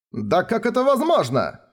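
high, shocked outcry; stunned group outcry. A narrator's reading. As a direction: cry out in disbelief. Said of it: "вскричали все".

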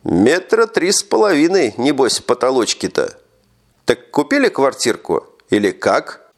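mumbling around a cigarette; words slurred by a cigarette; cigar in mouth. Acted. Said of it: "невнятно спросил он".

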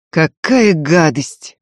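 short, curt disgust. Acted. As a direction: bite off the words. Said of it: "отрывисто сказал Иверзнев".

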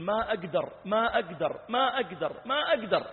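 retold anguished, repeated cry; imitated tearful pleading. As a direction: mimic someone weeping helplessly, rising in pitch. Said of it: "فجعل يبكي ويقول".

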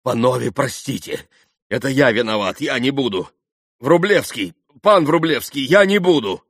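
loud, high, urgent pleading; frightened apology. A narrator's reading. Mitya apologising to the gentlemen in fright, pleading. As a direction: plead anxiously, rising as it goes. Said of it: "Митя страшно испугался".

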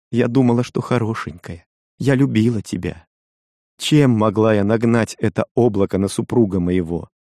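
lightly voiced young wife, hurt and reproachful; Kokua, a hint of a wife's reproach. Kokua's plea continues. (лёгкий голос обиженной жены)

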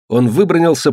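ordinary delivery, nothing marked

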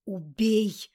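a single loud, barked order; insistent demand. A narrator's reading. Grarg insists from the ring, loud order. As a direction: demand it forcefully. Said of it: "настойчиво требовал Грарг".

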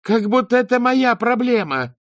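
high, loud, furious yell; screaming abuse at a stranger; angry shout. Acted. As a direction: shove him aside with your voice. She yells back while leaving.

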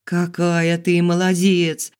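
high, drawn-out admiration; admiring. A narrator's reading. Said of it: "восхитилась рыжая Мира". (с восхищением, нараспев)

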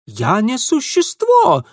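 loud, high, slow indignation; indignant. Acted. Ingvar indignantly protesting to Mitya. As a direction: protest hotly. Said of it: "немедленно возмутился тот".

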